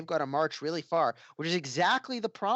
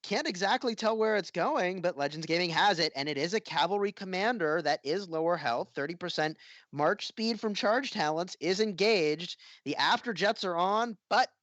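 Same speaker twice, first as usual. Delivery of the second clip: animated, higher-pitched esports call; live play-by-play; 4 semitones higher than usual. Real, not acted. Caster calling the arc on the move, live play-by-play. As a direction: call the action as it unfolds.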